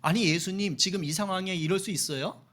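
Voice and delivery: acted indignant remonstrance; mildly heated complaint to a teacher; protesting. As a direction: press him with disbelieving, accusing questions. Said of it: "라고 항변하는 겁니다".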